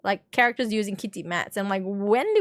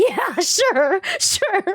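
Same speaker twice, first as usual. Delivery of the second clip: sarcastic; 8 semitones higher, much slower than usual. Real, not acted. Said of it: "sarcastic reply".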